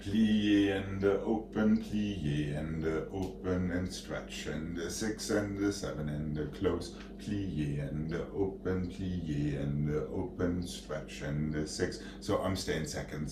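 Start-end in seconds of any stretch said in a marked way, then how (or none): 0.0-12.0 slow sung-out ballet counts; stern rhythmic counting. Shown as a demonstration. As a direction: call the steps slowly in rhythm. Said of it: "ballet teacher counting the combination".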